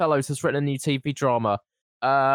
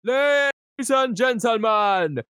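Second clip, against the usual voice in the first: mock Jamaican accent; 7 semitones higher, slower than usual. Host announcing the Halloween episode in mock Jamaican accent. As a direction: belt the opening like a hammed-up Jamaican accent MC. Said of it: "I'll go with the Jamaican".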